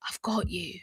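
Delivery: soft Cockney whisper of I've got you. Shown as a demonstration. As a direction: breathe it out in a London Cockney lilt. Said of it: "I just went a bit London Cockney".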